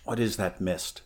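quiet, uneasy question. Acted. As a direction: ask it warily, under your breath. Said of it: "the Cimmerian asked uneasily".

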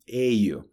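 "Eio" alone, as EI-yu; "Eio" sounded out as a Portuguese ending; isolated ending. Shown as a demonstration. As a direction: model the glide in "Eio" by itself. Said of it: "essa pronúncia vai ajudar em outras palavras".

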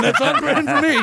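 laughing. Real, not acted.

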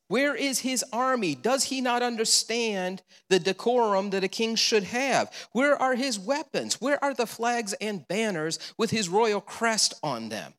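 rising scornful disbelief; scoffing questions. Acted. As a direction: play the doubters sneering at a humble king. Voicing crowd's scornful questions.

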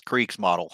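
Kriegsmodel said "kreeks-MAH-dul"; Texan-style pronunciation. Shown as a demonstration. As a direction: say Kriegsmodel with a plain English "model" ending. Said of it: "If you're from Texas".

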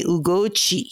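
Ugochi with the last syllable coming down; family's pronunciation. Retold or imitated. Guest quoting her family, Ugochi with falling chi. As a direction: drop the chi at the end of Ugochi. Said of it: "My family call me".

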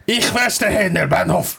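high, forceful mock-German delivery; hammed-up, verbally violent German accent; full-on German. Shown as a demonstration. Host showing how he would really do German, violently hammed-up German. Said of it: "if I was really going to do German".

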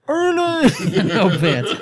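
sharp high call; shout. Acted.

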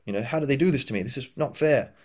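a mild hammed-up indignant rant; mock outrage. Teacher mimics a person resisting what happened, mild mock outrage. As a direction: imitate someone fuming at unfairness. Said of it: "being like".

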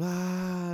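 high, held mock yell at ordinary volume; drawn-out retold "aah"; mock scream. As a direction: imitate a scream without really shouting. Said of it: "He screamed".

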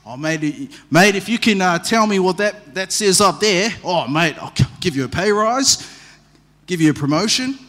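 lightly put-on Aussie accent, matey; the king pitching his offer in a light Aussie accent; mock Aussie king. Preacher retelling the king's offer in a hint of an Aussie accent. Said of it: "Aussie rendition of the text".

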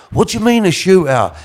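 high-pitched incredulous question, imitated; acting out Charlie. Charlie questioning a shootout on the phone, mock incredulous. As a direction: jump up high in mock disbelief. Charlie's startled reply, retold punchline setup.

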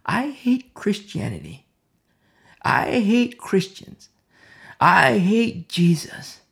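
slow, halting imitation of tearful hate; retold crying. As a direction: act out a crying man, drawing out each word. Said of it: "it's like the convulsing crying".

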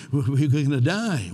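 slow, slightly loud mock panic. Preacher voicing disciples who fear the storm, mock panic. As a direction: drag it out like frightened sailors.

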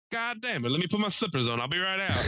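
put-on high-pitched grumbling old man; cranky old neighbor. Old man agreeing to come out to the cops, high cranky grumble. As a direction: imitate grudging exasperation. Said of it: "he's how he talked".

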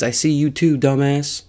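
mildly shouted police taunt; cop calling out. Retold or imitated. Acts out cop calling him out.

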